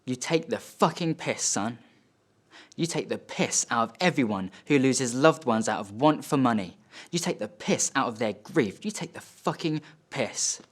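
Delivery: emphatic, controlled anger with jumps in pitch; indignant dad. Acted. Dad to son over money spent saving him, bitterly indignant. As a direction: build the rebuke through hammered repeats. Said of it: "He says".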